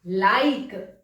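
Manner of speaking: लाइक as la-EEK; both vowels sounded. Shown as a demonstration. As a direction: model लाइक in two syllables. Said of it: "इसको हम बोलेंगे".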